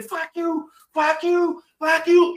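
retador y agudo, cada vez más fuerte; burla desafiante. Retold or imitated. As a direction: provoca al policía con desprecio creciente. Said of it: "él se pone a decirle". (insulto de burla, subiendo de volumen)

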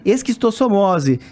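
slow "Esquistossomose" in a Carioca accent. Shown as a demonstration. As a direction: show off a Rio accent on "Esquistossomose". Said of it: "sotaque carioca".

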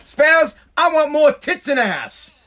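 hammed-up Texan radio manager; Texan boss impression. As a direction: bark the order like a Texan boss. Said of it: "The guy was from Texas".

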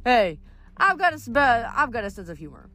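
high, loud hey, then settling; mild snarl. A narrator's reading. Leo is called grumpy, snarling mildly. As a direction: retort with a touch of irritation. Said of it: "Leo snarled".

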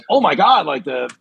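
high, gushing fanboy voice; excited fan. Retold or imitated. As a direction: squeal the names like a thrilled fan. Imitating excited wrestling fans.

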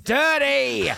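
high shouted diva voice; pop singer impression. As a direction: belt it like a pop diva. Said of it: "a woman dressed as a pop singer going".

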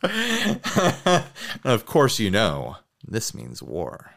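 a lightly put-on French accent, slow and low at the end; mock French, dropping low and soft on the threat. Co-host answering the bad French with his own light mock French accent. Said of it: "that was my French accent".

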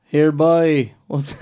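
half-managed Cork greeting; attempted Cork accent. Shown as a demonstration. Copying a friend's phrase, faltering Cork accent. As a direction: try Cork and give up. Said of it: "I can't do it".

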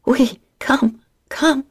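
a lover crying out in French; ecstatic moan. Acted. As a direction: moan the words in pleasure. Woman moaning during sex.

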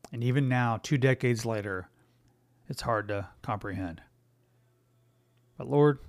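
earnest prayer voice; quick prayer. Real, not acted. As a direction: pray it sincerely, with long pauses.

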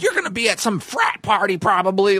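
high-pitched imitated rant; losing his mind. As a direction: act out a boss ranting accusations. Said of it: "he just started losing his mind".

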